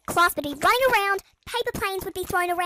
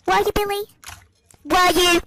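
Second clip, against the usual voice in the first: sarcastic; 4 dB louder than usual. Retold or imitated. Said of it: "they'll go like".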